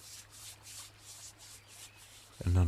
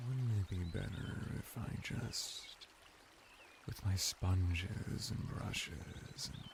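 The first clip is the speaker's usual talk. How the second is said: intimate hush; 10 dB quieter than usual. Acted. Bath attendant coaxing the ruler to relax, hushed. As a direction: murmur it like a caress.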